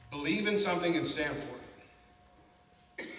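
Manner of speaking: slow, every word set apart; slow, weighty quote. Shown as a demonstration. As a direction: let each word of the quote land slowly. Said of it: "How powerful is that?".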